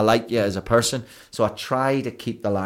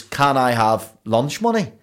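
put-on child asking mum; 4 semitones higher, 5 dB louder, slower than usual. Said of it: "saying to my mum".

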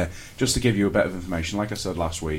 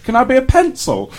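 high, loud eager asking; eager question; 8 dB louder than usual. Retold or imitated. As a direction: pipe it up high like a keen student. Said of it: "came in the other day and said".

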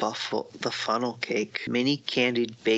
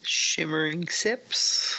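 slow careful reading; 5 semitones higher, much slower than usual. Shown as a demonstration. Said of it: "I can't even say that".

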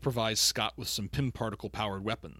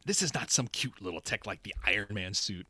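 Michael Douglas impression. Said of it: "my bad Michael Douglas impersonation".

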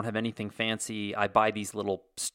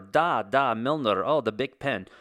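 a hint of vague, muddled European accent; mock European accent; slower than usual. Podcaster imitating sophisticated Europeans admiring the Bic pen, mock European accent. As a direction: put on a token all-purpose European accent. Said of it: "That's my European accent".

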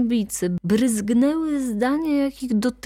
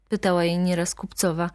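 ordinary delivery

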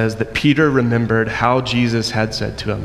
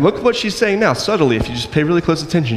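normal talking voice

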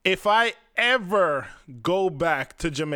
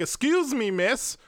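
put-on posh polite accent; 5 semitones higher than usual. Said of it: "in my very eloquent, very nice accent".

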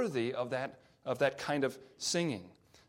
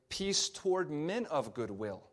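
"men of goodwill" picked out with a pitch rise on "men"; stress on men of goodwill. Shown as a demonstration. Preacher showing listeners where a translation puts the emphasis, stress on "men of goodwill". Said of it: "think about the emphasis there".

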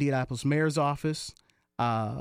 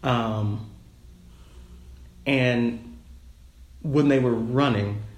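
digitally disguised voice; altered voice; 3 dB louder than usual. Real, not acted. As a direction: voice run through a pitch changer. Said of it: "you'll hear it go from my normal voice".

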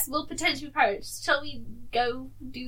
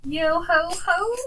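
slow hammy pirate call; weak mock pirate; 2 semitones higher, 3 dB louder, slower than usual. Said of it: "try your pirate voice".

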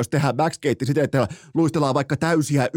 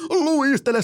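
high mock yell, more pitch than volume; imitated coach's shout; 10 semitones higher, slower than usual. Coach ordering players to skate after a home loss, imitated high shout. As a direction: mimic the coach shrieking a command.

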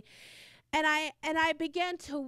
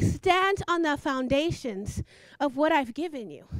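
proclaiming; 3 semitones lower, 4 dB louder than usual. Real, not acted. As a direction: thunder it out from the pulpit. Preacher proclaiming God's word.

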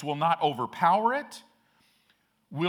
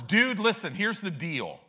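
put-on cocky teen to the king; 3 semitones higher, 5 dB louder than usual. Three teenagers lecture King Nebuchadnezzar, brash and casual. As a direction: set the king straight like a teen. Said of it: "In other words".

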